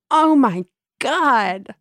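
loud, stretched-out horror at the story; real shock. Real, not acted. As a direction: slowly exclaim in appalled shock. Shocked reaction to boss's remark.

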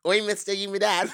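British accent run together quickly. Shown as a demonstration. Host retrying after co-host's critique, quick British accent. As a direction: say the British line in one go. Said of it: "if you say it all quickly".

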